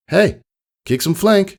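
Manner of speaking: high, bright-eyed filly voice; Pyra's voice. Acted. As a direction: pitch way up to play the cheeky pony. Pyra voiced in read story.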